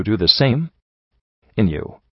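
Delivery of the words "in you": a low, shocked murmur. Acted. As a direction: breathe it out in disbelief. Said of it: "Letlepip murmured in shock".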